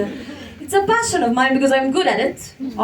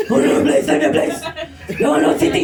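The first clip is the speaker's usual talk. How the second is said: louder comic protest; mock angry pleading; 3 semitones higher, 3 dB louder than usual. Mock angry stranger protesting her brush-off. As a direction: whine the protest playfully. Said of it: "They get angry".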